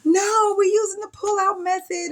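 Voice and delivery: high, loud protest through laughter; laughing protest. Retold or imitated. Patient telling the nurse her method, laughing and high.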